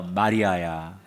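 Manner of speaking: low, slow and gentle, the name drawn out; tender familiar call. A narrator's reading. Jesus gently calling grieving Mary by name, tender and slow. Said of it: "너무나 친숙한 목소리로".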